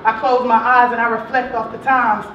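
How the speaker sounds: rhythmic, punchy rhyming delivery with held words; spoken-word poem. Acted. Poet dedicating verses to the boys, spoken-word poetry. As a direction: recite it in swinging slam-poetry cadence.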